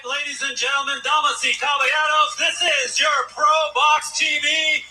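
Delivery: booming ring announcer calling the main event. Pretend. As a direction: stretch the words like a big fight announcer.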